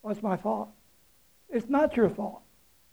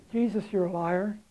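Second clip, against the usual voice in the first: mock challenge; 8 dB quieter than usual. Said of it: "As if to say".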